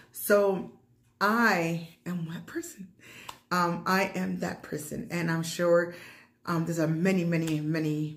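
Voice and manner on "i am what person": breathy whispered rhetorical question. Real, not acted. Mom vlogger asking viewers who she is, whispered. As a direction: lean in and whisper it.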